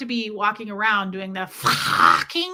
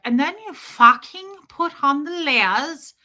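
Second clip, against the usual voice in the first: slow, loud, higher hammed-up bravado; brash coach voice; 5 semitones higher, 6 dB louder than usual. Streamer mimics Nancy's coaching line, loud and slow. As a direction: bark it out like a macho coach. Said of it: "she's like".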